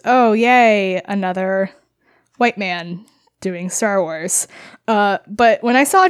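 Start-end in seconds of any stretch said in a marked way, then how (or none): 0.0-4.5 dry sarcastic "oh yay"; mock cheer, slow and flat. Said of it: "my first thought is".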